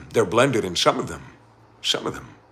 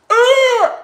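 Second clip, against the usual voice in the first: mock cat shriek; 8 dB louder than usual. Cat toy taken away.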